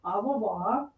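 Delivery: clumsy mock French accent, quiet; fumbling French accent, barely knows the language; bad French accent. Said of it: "Yeah, that was really bad".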